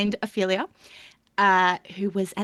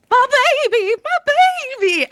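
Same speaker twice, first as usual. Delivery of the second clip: higher, louder wail of a mother; a hammed-up grieving mother; mock wail; 13 semitones higher, 7 dB louder, faster than usual. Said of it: "she was holding a red thing".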